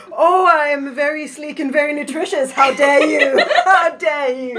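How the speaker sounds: laughing through a playful affronted act; loud, giggly comic outrage; mock indignation. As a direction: pretend to be insulted while cracking up. Acts out indignant mackerel, laughing.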